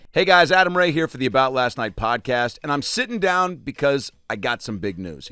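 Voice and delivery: upbeat host-read sponsor spot over music. Acted. Comic pitching a chair sponsor to listeners, ad read. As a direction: sell the chair to podcast listeners.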